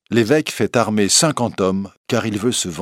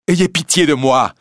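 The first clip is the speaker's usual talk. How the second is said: supplication; 8 semitones higher, 7 dB louder than usual. A narrator's reading. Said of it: "supplie l'évêque".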